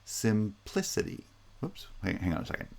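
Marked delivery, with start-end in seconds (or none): 0.0-1.2 simplicity broken up, sim-PLI-city; primary stress on PLI. Shown as a demonstration. Teacher showing primary stress, simplicity with PLI strongest. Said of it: "has primary stress".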